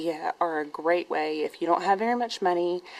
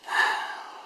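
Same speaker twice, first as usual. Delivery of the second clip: breathless sigh. Real, not acted. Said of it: "Sorry, I'm out of breath".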